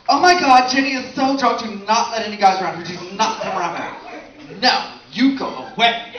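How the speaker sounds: high, excited mock girlfriend voice; mock girly friend. Comic mimicking girls protecting a drunk friend, high and excited. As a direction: ham up a protective drunk girl.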